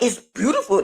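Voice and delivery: lightly imitated grandma; a hint of grandma's swooping voice; grandma's way of talking. Grandma still praising the blanket, lightly mimicked. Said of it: "That's how she was talking".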